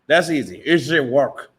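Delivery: put-on a light Cuban gangster accent, Tony Montana style; mock Scarface accent. A boxer teased in a mock Scarface accent. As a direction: tease him with a hint of Scarface. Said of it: "That's Scarface".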